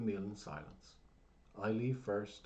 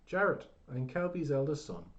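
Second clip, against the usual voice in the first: shouted back; 6 semitones higher, 7 dB louder than usual. A narrator's reading. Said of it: "he shouted back".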